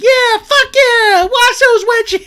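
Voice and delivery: put-on very high, loud, strained baby squeal; baby Lala squeak. Recapping the show, voicing baby Lala in a shrill squeal. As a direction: shriek it like a tiny toddler.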